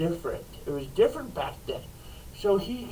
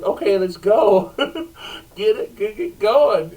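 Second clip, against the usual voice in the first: urgent call; 7 dB louder than usual. Retold or imitated. Urging horse, laughing.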